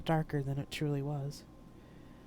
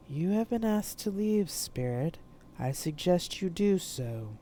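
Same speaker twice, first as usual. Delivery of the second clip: a hint of a dark, commanding woman; cool, measured warning; darkly feminine voice; 2 semitones higher, slower than usual. Cloaked woman warning the spirit, darkly commanding. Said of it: "said the darkly feminine voice".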